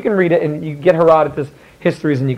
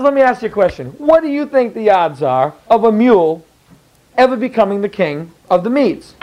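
smug king; 3 semitones higher than usual. Retold or imitated. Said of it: "Now he says".

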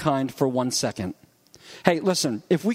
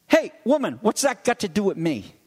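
curt harsh version; 3 semitones higher than usual. Shown as a demonstration. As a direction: snap it like a rebuke. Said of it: "not only what was said, but how it was said".

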